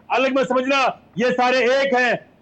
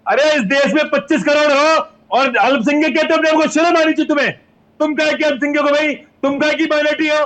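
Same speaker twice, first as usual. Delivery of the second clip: raised voice, heated and accusing; angry rebuke; 5 dB louder than usual. Real, not acted. Panelist berating his debate opponent over minority status, angrily. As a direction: berate an opponent loudly in a real argument.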